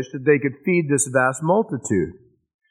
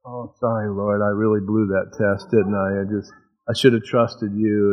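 sheepish apology; 4 semitones lower than usual. Acted. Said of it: "We go".

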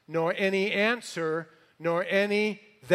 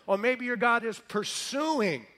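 higher-pitched mock suggestion; 5 semitones higher than usual. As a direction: taunt them with a raised pitch. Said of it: "Elijah starts to mock these guys".

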